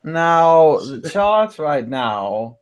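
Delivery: slow, drawn-out mock Eastern European accent; a badly faked Eastern European drawl; hammed-up slow foreign accent on the charts. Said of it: "That's a terrible tone accent".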